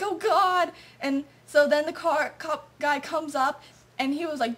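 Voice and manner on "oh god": a little higher, louder "Oh God!"; mock dread. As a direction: groan of dread as they get pulled over. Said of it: "we're like".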